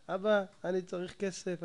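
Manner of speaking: slow, soft and calm reading of the letter; calm gentle read. Retold or imitated. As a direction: read it kindly, like a calm neighbor. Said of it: "רגוע".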